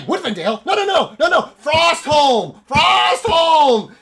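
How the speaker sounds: frantic shrieked denial; insane elf. Acted. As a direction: cry out the name in mad fervor. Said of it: "fucking insane elf".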